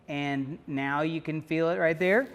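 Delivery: strained, squeezed throat; choked voice. Shown as a demonstration. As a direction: talk with a hand on the throat. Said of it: "You heard the difference".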